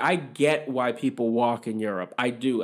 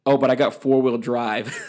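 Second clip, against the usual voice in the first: louder, laughing mock of drivers' excuse; mock whiny excuse; 5 dB louder than usual. Mocking Massachusetts drivers who brag about four-wheel drive. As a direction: sneer out their lame excuse. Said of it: "and then they always go".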